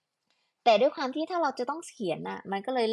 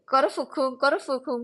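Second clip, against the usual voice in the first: playful mock name; 4 semitones higher, 5 dB louder than usual.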